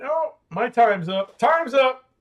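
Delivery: high, loud cheery singsong; singsong mock farewell. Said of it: "She went".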